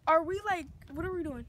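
loud, irritated question; annoyed outburst. Real, not acted. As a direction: ask loudly, fed up with the camera. Teen annoyed at being filmed.

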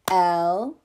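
Ele-phant in three beats, EL, E, PHANT with gaps; split into syllables. Shown as a demonstration. Teacher repeating for preschoolers, Ele-phant broken into three clapped syllables. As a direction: clap out Ele-phant one syllable at a time. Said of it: "Let's clap them one more time".

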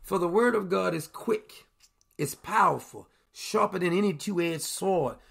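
slow, measured Bible reading; scripture reading. Acted. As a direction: read the verses slow and solemn. Reads scripture aloud.

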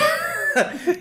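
high squealing laugh. Real, not acted. Asking the table to wait.

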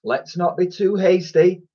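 lightly voiced sneaky teacher; sly remark. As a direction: coolly suggest leaving him. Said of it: "remarked Mister Lust".

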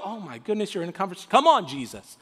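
mildly exasperated father; impatient Jairus. Acted. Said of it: "like, impatient father moment".

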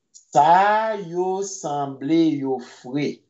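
"Sa yo sanble yo fre" said slowly with a rise on "fre"; slow it down for learners to copy; slow careful repeat. Shown as a demonstration. Teacher slowly repeating the phrase for the class.

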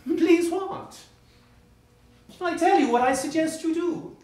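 high, loud, scornful challenge; sarcastic anger. Acted. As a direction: lash out with mocking contempt. Husband turns on wife.

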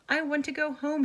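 out of breath; panting. A narrator's reading. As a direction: pant the words. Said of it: "he panted".

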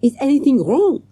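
high, worried hotel manager; anxious manager. Acted. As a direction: fret like a nervous manager.

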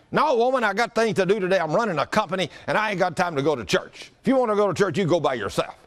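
vocal husband. Retold or imitated. Husband refusing church to his wife, mock vocal protest. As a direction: push back at the wife, starting high. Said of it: "sometimes he gets vocal with her".

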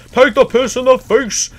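loud, slow, mocking yell; taunting the characters while peeing on them; gleeful taunt. Real, not acted. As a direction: jeer at them with glee.

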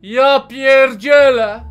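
usual speaking voice

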